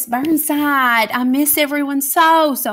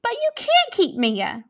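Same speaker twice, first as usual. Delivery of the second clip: crying out; 12 semitones higher than usual. Acted. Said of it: "Lucy cried".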